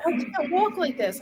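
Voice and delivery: imitating young daughter. Daughter sent upstairs after an accident, imitated child protest. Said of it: "She's like".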